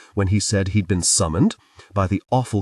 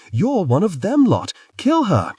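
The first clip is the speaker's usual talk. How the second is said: higher frightened villagers screaming; higher hostile scream; mob scream; 10 semitones higher than usual. A narrator's reading. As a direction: yell it at her like a panicked mob. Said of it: "screamed several others together".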